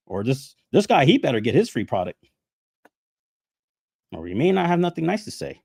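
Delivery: high, fast mocking voice of the critics. Mocking the critics demanding free product, high and fast. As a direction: sneer out their demands.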